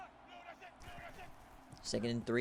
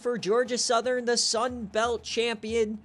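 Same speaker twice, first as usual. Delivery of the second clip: lingering excitement; 7 semitones higher, 3 dB louder than usual. Real, not acted. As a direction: still buzzing from the score. After touchdown recap.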